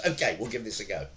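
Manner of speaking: ordinary talk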